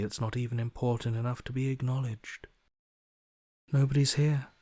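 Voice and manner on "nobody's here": emphatic. Acted. Emphatic declaration.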